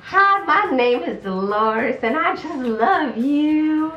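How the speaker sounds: put-on slow, high, syrupy sweet old lady, almost teary; creepy Dolores. Comedian shows the host why Dolores is creepy, slow and cloying. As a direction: smother them with slow creepy affection. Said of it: "No, she's like".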